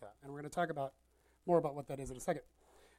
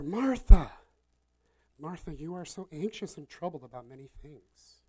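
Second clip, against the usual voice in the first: tender; 4 semitones lower, 5 dB louder than usual. Acted. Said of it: "he's very tender".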